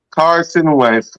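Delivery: Carson Wentz drawn out slowly, falling; slow dramatic. Shown as a demonstration.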